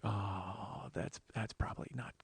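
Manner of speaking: whispered dread; inner whisper. Retold or imitated. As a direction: whisper it like a thought. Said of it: "in my head".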